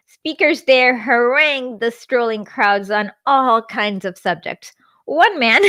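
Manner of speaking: measured book narration voice; memoir read-aloud. A narrator's reading.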